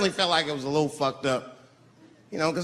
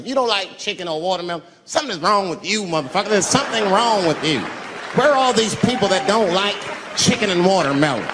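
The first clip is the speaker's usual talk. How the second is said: ranting; 3 semitones higher than usual. Real, not acted. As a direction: build to an outraged rant. Rant building.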